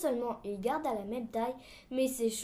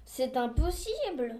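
slow, drawn-out objection; lightly voiced solemn official, words stretched; ponderous refusal; slower than usual. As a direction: refuse slowly and weightily. Reads the objector's part.

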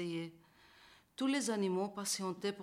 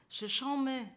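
cri joyeux; 5 semitones higher, 4 dB louder than usual. Acted.

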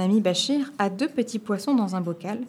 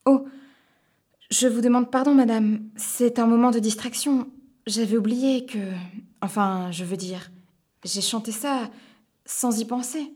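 apologetic; 3 semitones higher than usual. Acted. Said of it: "j'essaye de m'excuser".

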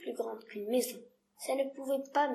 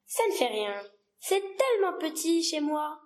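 grave remark; 3 semitones higher than usual. Acted. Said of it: "le petit prince remarqua gravement".

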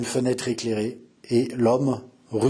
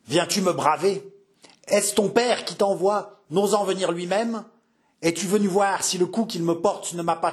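higher, raging threats, pitched up; angry old captain; 4 semitones higher than usual. Acted. Old captain threatening his enemy's son with death. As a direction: spit out the outrage and the threat. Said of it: "gronda le vieux capitaine".

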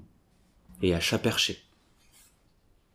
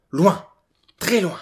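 rising excitement; 9 semitones higher, 5 dB louder than usual. A narrator's reading. Friends run away far.

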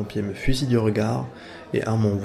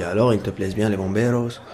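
put-on light joking Spanish accent, teasing; hint of a Spanish accent on French words. Flirting with the Chilean flatmate in a light Spanish accent. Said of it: "j'active mon accent espagnol".

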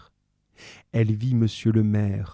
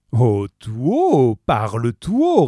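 harsh loud order; 2 semitones higher, 6 dB louder, slower than usual. Acted. Javert harsh retort.

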